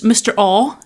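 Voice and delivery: "Mister Aw", the name starting on the vowel; "Aw" without an R. Retold or imitated. Host repeating the name she misheard, "Aw" with no R. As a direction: say "Aw" with no R sound at the front. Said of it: "that was your English accent".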